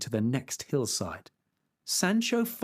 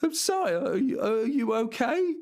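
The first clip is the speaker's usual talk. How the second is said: higher, breathless and worried; out of breath; 10 semitones higher than usual. Acted. Squire running up to his fallen master, breathless and high. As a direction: gasp it out after running. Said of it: "out of breath".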